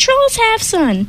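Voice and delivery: high, slow troll chant; thundering trolls. Acted. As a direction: repeat it like stubborn trolls. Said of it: "the trolls thundered".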